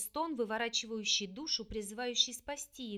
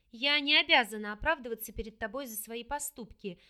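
louder, flaring retort; 5 dB louder than usual. Acted. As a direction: snap back defensively. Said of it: "вспылила на его обвинение".

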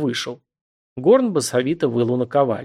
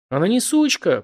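a touch of a shout, higher; mild shout; 7 semitones higher than usual. A narrator's reading. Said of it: "крикнул Горн". (лёгкий выкрик)

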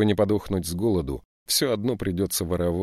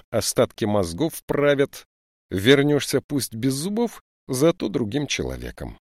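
stern lieutenant; 3 semitones higher, 3 dB louder than usual. Acted. Lieutenant scolds the boot thieves, stern and raised. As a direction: lecture the young thieves sternly.

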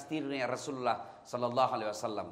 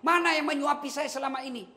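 higher, urgent question; anxious blind man; 12 semitones higher, 5 dB louder than usual. Acted. Blind man asking for his usual helper, high urgent. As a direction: plead to know where he is. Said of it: "Lalu dia berkata".

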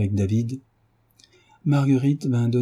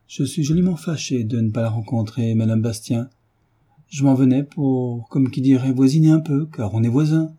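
vieille marquise. Retold or imitated. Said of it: "cette chère bonne petite vieille dame".

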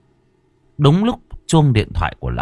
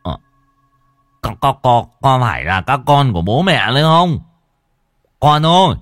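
louder, higher, whimpering plea; tearful old father; 4 semitones higher, 6 dB louder than usual. Acted. Old father asks if it is his children, tearfully pleading. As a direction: plead tearfully, tripping on the first words. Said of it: "Lão Sửu mếu máo".

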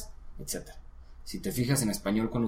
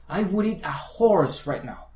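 slow, higher native-speaker sentence; natural speech demo; 6 semitones higher, 4 dB louder, slower than usual. Shown as a demonstration. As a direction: model a fluent English speaker. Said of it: "a ritmo normal, va a decir".

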